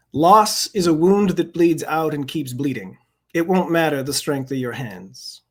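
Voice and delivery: measured, deliberate poem recital; poetry reading. Acted. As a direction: give each line its weight, unhurried. Reads his poem aloud.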